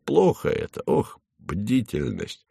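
an official fretting over vigilance; muttered. A narrator's reading. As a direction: mumble it half to yourself. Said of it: "пробормотал Хлебоводов".

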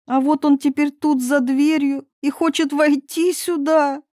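a hint of a frightened young princess; upset princess. Princess confessing her promise to her father.

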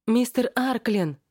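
high frantic call. Acted. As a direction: cry out his name. Friend calls out in panic.

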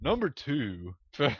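announcer voice collapsing into laughs; breaking into laughter. Pretend. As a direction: try the announcer line but crack up. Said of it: "radio announcer voice".

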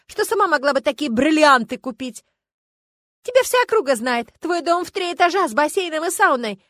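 высоко и громко, на взводе; кричи в ответ на упрёки; перепалка. Acted. Перепалка дамы и знахарки. (громкая перепалка)

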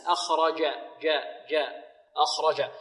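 أخرج with a pure jim, no dal; jim from mid-tongue. Shown as a demonstration. Teacher drills the letter's origin, clean jim in أخرج. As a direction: repeat جاء from the middle of the tongue. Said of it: "من وسط اللسان".

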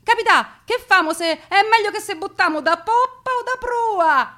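high, urgent dialect question; frightened Roman asking which way to jump; anxious Roman passenger. Acted. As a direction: plead with the captain for orders. Roman passenger asks captain.

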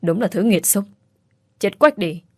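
hissed curse. A narrator's reading. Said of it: "Thúy rít lên".

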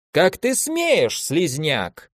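a lightly voiced shrill shriek from a woman warrior; a hint of an outraged shriek. A narrator's reading. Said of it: "взвизгнула претарианка". (лёгкий визг)

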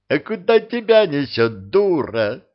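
a count shouting crossly mid-fight; angry shout. A narrator's reading. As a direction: snap it at her angrily. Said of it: "сердито крикнул вредный граф".

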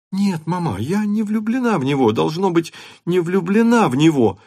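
put-on high, insistent girlish voice; protesting sincerely; earnest girl. A narrator's reading. Natasha insists to her mother, earnest.

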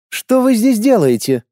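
sharp, high command. A narrator's reading. Lorana challenging the intruders in a commanding tone. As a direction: snap an order at intruders. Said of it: "приказным тоном произнесла Лорана".

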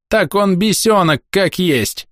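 a shrill woman refusing to back down; shrill village woman. A narrator's reading. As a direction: village woman crying out her point. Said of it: "не сдавалась крикливая тётка".

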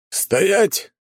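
high, scared shout of a guard; frightened shout. Acted. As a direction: yell it out in fright. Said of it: "его окликнул испуганный голос".

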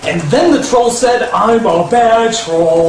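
lightly voiced parent slowly repeating a child's line; parent taking dictation. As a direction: echo it back, stretching the last words. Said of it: "let your five-year-old write the screenplay".

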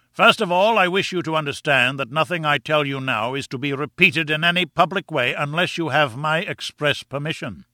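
lightly voiced professor laying down rules; imperious professor. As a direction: lay down conditions with pompous authority. Narrator voices the pompous professor.

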